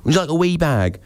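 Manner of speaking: high Scottish "wee bag" with a lilt; Scottish accent. Retold or imitated. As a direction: mimic a Scottish shop clerk. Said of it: "whenever the Scottish people say".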